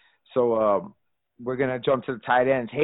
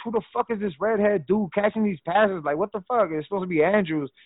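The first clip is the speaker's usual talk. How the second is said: a raised, exasperated question, kept at talking volume; retold irritation; 6 semitones higher than usual. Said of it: "I used to get pissed".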